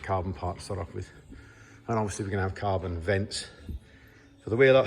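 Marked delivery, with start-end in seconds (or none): 1.9-4.9 short of breath after covid; shallow breathing. Real, not acted. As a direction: talk between shallow breaths. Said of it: "excuse my breathing".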